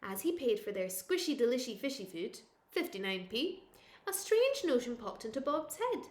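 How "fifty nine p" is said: usual speaking voice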